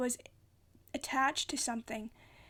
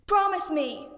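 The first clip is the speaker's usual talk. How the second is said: loud pleading shout, higher; urgent shout; 4 semitones higher, 8 dB louder than usual. A narrator's reading. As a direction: demand a promise at full voice. Percy shouting up to Nico.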